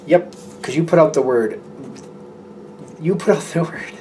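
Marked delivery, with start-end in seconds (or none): 3.0-3.9 a laugh breaking into the phrase; giggling through the repeat. Real, not acted. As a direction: repeat it and crack up before word. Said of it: "I don't know why I'm laughing".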